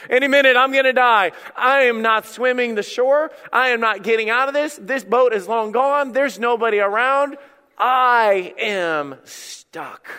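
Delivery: acted despair, slowing to a drawn-out end; preacher dramatizing hopelessness; desperate drowning man. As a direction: voice a swimmer giving up, word by word. Acts out Jonah swimming, despairing.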